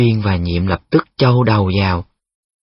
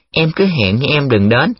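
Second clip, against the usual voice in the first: lightly mimicked verse, raised pitch; mock braying recital; 4 semitones higher than usual. Mẫn scolding Nhiệm for jinxing his date, mock recital. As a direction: quote the poem with mild scorn. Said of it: "mày đã ong ổng".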